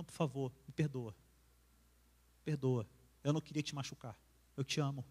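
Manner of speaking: husband apologizing to his hurt wife, soft and tender; tender apology. Retold or imitated. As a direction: ask her forgiveness quietly, lovingly.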